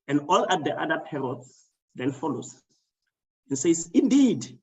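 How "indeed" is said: mildly raised, higher-pitched exclamation; mock scream. Storyteller voicing all the parrots agreeing, mock scream. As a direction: imitate a chorus crying out, lightly. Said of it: "they all scream".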